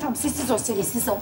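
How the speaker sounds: low, hushed voice; urgent hushing. Acted. Woman hushing her friend Selin as they hide, hushed. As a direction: hush her under your breath.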